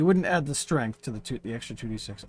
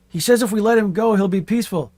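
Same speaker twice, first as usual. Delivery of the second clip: Paul voice; 7 semitones higher, 7 dB louder than usual. Acted. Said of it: "Paul says".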